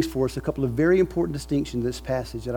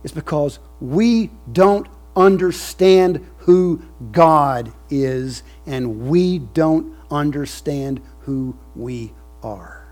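raised quote; 2 semitones higher, 7 dB louder, much slower than usual. Retold or imitated. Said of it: "And he said".

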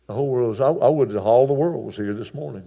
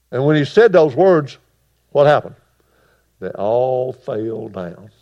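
full-force preaching; 10 dB louder than usual. Acted. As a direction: build the story to a roar from the pulpit.

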